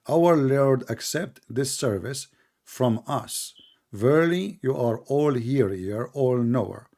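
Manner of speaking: slow, spaced-out prayer reading; deliberate, measured verse delivery; reading scripture aloud. Real, not acted. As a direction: read out the prayer phrase by phrase, slowly. Reads Quran verse aloud.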